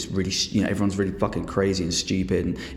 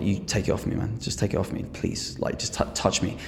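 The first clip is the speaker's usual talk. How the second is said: hushed and dangerous, daring him; murmured threat, almost breathless; quiet threat; 7 dB quieter than usual. Retold or imitated. Threatening the old man up close.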